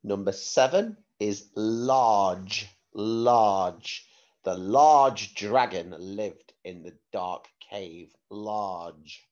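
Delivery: clear, careful word-sentence-word dictation; slow school dictation. Shown as a demonstration. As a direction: dictate each word slowly for a spelling test. Spelling test dictation.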